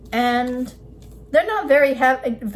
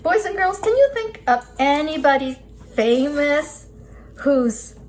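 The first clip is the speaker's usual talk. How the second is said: put-on kids show host; 4 semitones higher than usual. Quiz question addressed to children.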